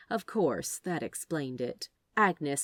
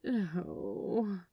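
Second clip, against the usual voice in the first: groan; 2 semitones higher, 3 dB quieter than usual. A narrator's reading. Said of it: "groaning into his hands".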